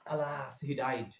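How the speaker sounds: slow, drawn-out lament; slow sorrowful exclamation; mournful exclamation. Shown as a demonstration. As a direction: sigh it out as grief. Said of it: "उसको exclamatory sentence कहते हैं".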